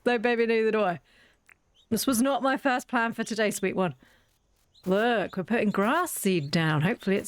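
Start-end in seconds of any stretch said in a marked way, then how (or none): 0.0-4.0 tender pet talk. Real, not acted. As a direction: reassure the little one gently. Soothing the trapped pet.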